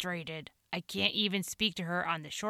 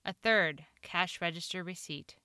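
ordinary delivery, nothing marked

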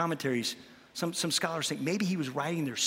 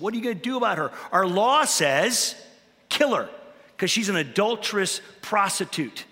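mock shouting accusers; 3 semitones higher than usual. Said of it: "And they're shouting".

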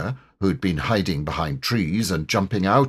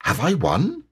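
higher-pitched, hopeful tiger question; cheery storybook character voice; cheerful; 8 semitones higher than usual. A narrator's reading. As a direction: pop up cheerily and ask. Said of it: "and said cheerfully".

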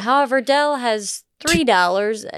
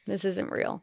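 disbelief; 12 dB quieter than usual. Retold or imitated. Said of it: "they're laughing 'cause they're like".

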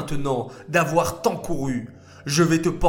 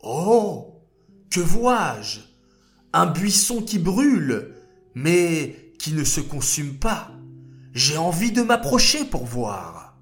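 amazed; 2 semitones higher than usual. Acted. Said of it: "en voyant quelque chose de miraculeux".

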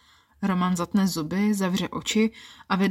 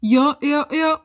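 repeated jo, rising much higher; high-pitched yeses; 5 semitones higher, 6 dB louder, slower than usual. Acted. Woman at climax repeats jo, high-pitched and rising. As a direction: climb up high on each jo. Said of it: "Vysokým tónem několikrát zopakuji".

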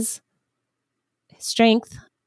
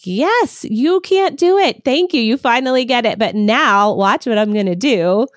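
much higher, louder delighted voice; God's joyful reply; 4 semitones higher, 3 dB louder than usual. Retold or imitated. God answering a weak mom, high delighted voice. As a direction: celebrate her surrender like a proud parent. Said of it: "is like".

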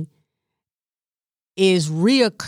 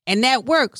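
normal talking voice

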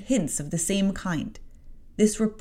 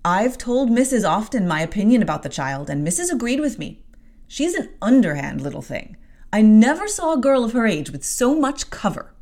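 gossiping servant; 5 semitones higher, 5 dB louder than usual. Acted. Maid complaining about Jane.

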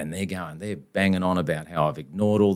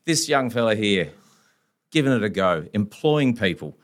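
impassioned lawyer speech; 4 semitones higher than usual. Retold or imitated.

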